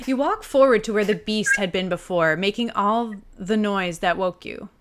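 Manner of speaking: game narrator setting the scene; game master's read-aloud; story narration. A narrator's reading. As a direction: read the adventure text out with purpose. Reads the game text aloud.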